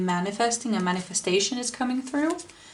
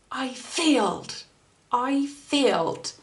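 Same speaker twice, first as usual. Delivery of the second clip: slow, higher mock wail of defeat; 4 semitones higher, slower than usual. Reliving the failed tyre repair, defeated. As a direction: drag it out, crushed. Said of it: "I was so defeated".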